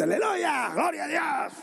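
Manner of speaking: a high, mock-pious cry of praise, lightly hammed; mocking a showy churchgoer. Preacher mocking a weekend-only believer's hallelujah, lightly hammed. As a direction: parody the hypocrite's sudden praise. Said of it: "vienes todo campante".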